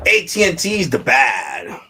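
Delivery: "A T and T's the bad" called out loud and slow; loud rant. Real, not acted. Slamming the carrier to his viewers, loud and slow. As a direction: shout it slowly like a verdict. Ranting against the phone carrier.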